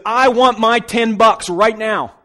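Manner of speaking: high, loud, slow furious demand; angry demand. Acted. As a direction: seize him and demand it. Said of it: "He took the man and he said".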